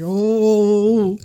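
self-parody, lightly voiced; mock herself. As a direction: toss off a mocking oh. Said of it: "I sound like that".

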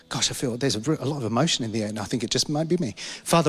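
earnest pastor's prayer, steady and devout; congregational prayer. Acted. Pastor praying over his congregation for the new year, devout prayer voice. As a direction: lift the congregation up to God in prayer.

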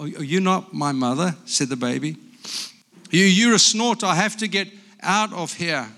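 lively picture-book reading with character voices; reading to children. Acted. Grandpa reading a picture book aloud to grandchildren, lively. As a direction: read it like a bedtime story to grandkids.

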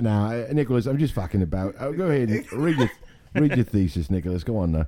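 put-on British reassurance; playful British accent. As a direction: coax him on in mock British. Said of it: "we can only use British accents".

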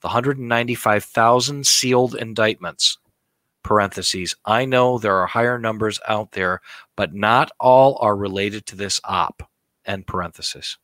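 slow, grave narrator read. Shown as a demonstration. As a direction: deliver it like a solemn documentary. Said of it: "my best narrator voice".

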